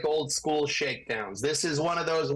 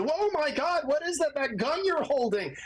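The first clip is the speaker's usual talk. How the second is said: higher, hammed-up fake panic; mock panicked victim; 9 semitones higher than usual. Lawyer mocking staged courtroom recordings, higher mock panic. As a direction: parody a staged cry for help. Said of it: "And she".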